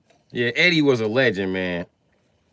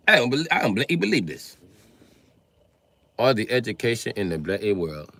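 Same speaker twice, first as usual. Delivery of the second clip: put-on British accent. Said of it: "when they come from Britain".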